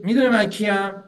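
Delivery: loud boast. Retold or imitated. Pharaoh calling out to his people, a loud arrogant boast. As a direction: boom it out like a tyrant showing off.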